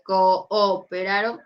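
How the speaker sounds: cooperaron with the two o's split apart; vowels separated. Shown as a demonstration. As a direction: say cooperaron as co-o-peraron, separate syllables. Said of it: "se separan".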